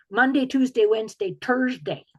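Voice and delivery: French Canadian "Thursday" starting with a hard t. Retold or imitated. Author imitating mother's French Canadian employee, T for th accent. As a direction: list the days, French Canadian style, "Turs-day". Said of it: "they tend to substitute T".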